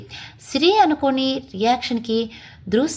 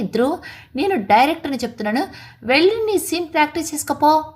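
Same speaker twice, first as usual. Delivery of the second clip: a director's commanding voice, a little louder; firm, loud order; 4 semitones higher than usual. Acted. Director firmly orders the actor off to practise. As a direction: lay down the law as the boss. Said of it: "గట్టిగా అన్నాడు".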